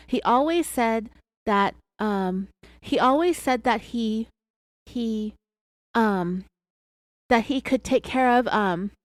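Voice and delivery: halting, with long pauses and ums; imitated hesitation. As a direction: keep restarting, as if unsure how to finish. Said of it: "and she's real hesitant".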